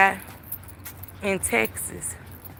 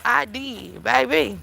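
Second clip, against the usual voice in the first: ordinary talk, nothing marked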